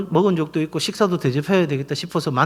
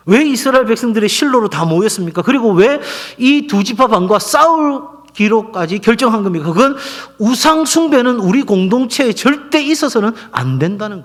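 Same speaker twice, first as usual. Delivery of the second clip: raised, driving pulpit voice; emphatic preaching; 4 semitones higher than usual. Acted. Pastor warning the congregation against idol worship, emphatic preaching. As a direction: drive the questions home to the congregation.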